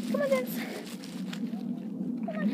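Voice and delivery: high, loud call to the dog. Real, not acted. Calling the dog.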